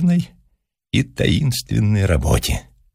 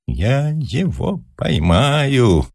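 very slow, drawn-out proclamation, pitched higher; pompous, ceremonious vow; solemn and important; 5 semitones higher, much slower than usual. A narrator's reading. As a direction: declare it grandly, stretching every word. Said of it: "торжественно и важно сказал он".

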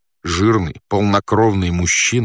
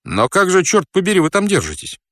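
high-pitched, incredulous question; bewildered exclamation; 10 semitones higher than usual. Acted. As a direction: demand an answer in sheer amazement. Friend baffled by man on ceiling. (изумлённо, высоким голосом)

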